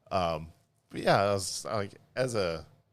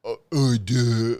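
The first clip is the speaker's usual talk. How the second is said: loud, higher dimwit noises; dopey dog-like voice; 4 semitones higher, 10 dB louder, slower than usual. Retold or imitated. Husband imitates wife's impression of him, loud mock-dopey voice. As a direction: blurt it out like a big dumb oaf. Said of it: "it's like your dog voice".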